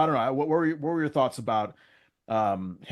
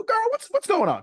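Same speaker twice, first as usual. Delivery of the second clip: very high, mock-shrieked girl; sassy girlfriend; 4 dB louder than usual. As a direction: camp it up like a nosy friend. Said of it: "I wouldn't be like".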